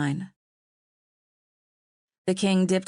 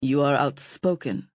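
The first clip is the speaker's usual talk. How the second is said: even; 3 semitones lower than usual. A narrator's reading. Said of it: "he said evenly".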